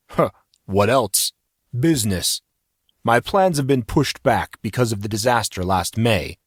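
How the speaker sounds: heavy musky man. Acted. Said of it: "heavy and musky".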